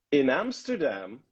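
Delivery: slow, measured demonstration; deliberate reading with a lifted ending; tongue-twister recitation. Shown as a demonstration. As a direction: present it as a vocal exercise. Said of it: "a tongue twister".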